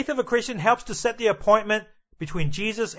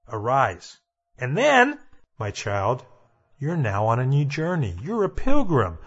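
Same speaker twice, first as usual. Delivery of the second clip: a hushed divine voice, lower; voice of God; 5 semitones lower than usual. Acted. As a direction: speak as God calling a new child. Voice of God to convert.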